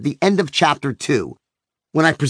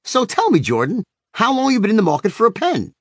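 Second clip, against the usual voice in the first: friendly, higher, respectful salesman opener; Danny turns on a respectful sales charm; 6 semitones higher than usual. A narrator's reading. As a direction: switch on the charm, politely. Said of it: "said in a respectful tone".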